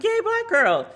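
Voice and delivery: very high squealing cheer; big cheer. Retold or imitated. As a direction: shriek it with pure delight. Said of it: "and I was like".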